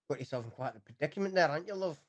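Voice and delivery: put-on rough, fast Scottish accent; a weak attempt at a Scottish accent. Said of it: "Very bad for the Scottish accents".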